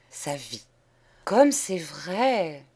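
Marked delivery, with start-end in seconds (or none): 1.3-2.6 exclaimed. Acted. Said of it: "Ce cri sorti de plusieurs bouches".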